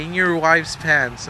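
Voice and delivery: slow, measured quote at near-normal pitch; lightly acted, stretched-out prompt; retold prompt. Prompting Gribble to say it, slowly.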